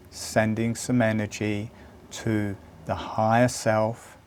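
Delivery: unhurried, spacing out each phrase to lead them inward; guided meditation. Acted.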